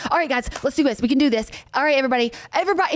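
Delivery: pep-talk coach voice; rallying the team; imitating Mike. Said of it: "he would always be like".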